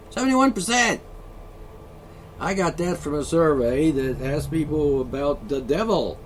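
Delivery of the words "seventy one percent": high, loud SEVENTY-ONE; emphatic. Real, not acted. Host repeats the survey figure, indignant and loud. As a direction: hammer out "Seventy-one percent". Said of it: "seventy-one percent of Americans".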